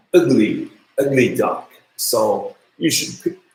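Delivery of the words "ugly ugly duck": UGLY with a strong opening vowel; strong first vowel. Shown as a demonstration. Teacher showing students the pronunciation, strong first vowel on "ugly". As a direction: lean on the first sound of "ugly". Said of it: "Strong A pronunciation".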